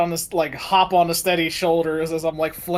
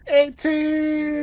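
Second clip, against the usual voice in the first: loud, high call of the roll; excited shout; 11 semitones higher, 5 dB louder than usual. Real, not acted. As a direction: sing out the number high and loud. Calling out a dice roll result.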